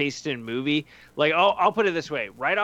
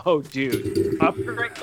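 mock excited; much slower than usual. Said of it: "be like".

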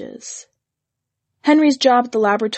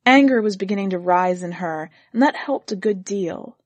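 ordinary delivery

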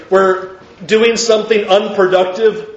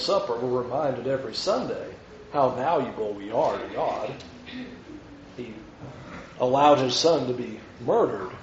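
soft, lower voice, tender and reverent; hushed reverent preaching; 8 semitones lower, 10 dB quieter than usual. Acted. Preacher reminding the church of God's love, hushed and reverent. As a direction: draw them close with quiet awe. Quiet reverent Lord's Supper reflection.

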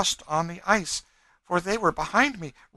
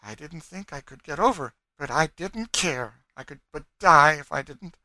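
high, loud fervent testimony; wild; 7 semitones higher, 8 dB louder than usual. A narrator's reading. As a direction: pour it out with defiant conviction, pitched up. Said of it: "said she wildly".

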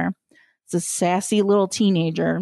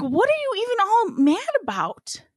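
incredulous higher; 11 semitones higher than usual. Retold or imitated. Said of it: "I'm like".

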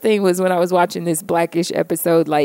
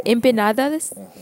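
mock Spanish pronunciation; 3 semitones higher, 3 dB quieter than usual. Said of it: "she'd say probably".

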